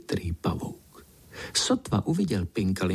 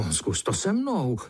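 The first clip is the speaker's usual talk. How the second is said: blurted eagerly; 5 semitones higher than usual. Acted. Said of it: "vyhrkl pavouk".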